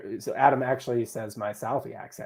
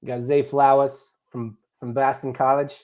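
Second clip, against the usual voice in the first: stereotypical Southie Boston accent; dropped-R Boston put-on. Shown as a demonstration. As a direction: lay on an exaggerated Boston accent. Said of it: "How's my Boston accent?".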